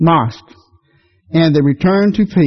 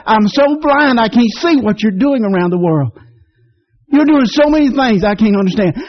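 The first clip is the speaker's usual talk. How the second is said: raised-pitch cry of praise, slowing at first; mild retold shout; 4 semitones higher than usual. Preacher retelling his thanks to the Lord, mildly shouted. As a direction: call it out to God without extra volume. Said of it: "I just shouted".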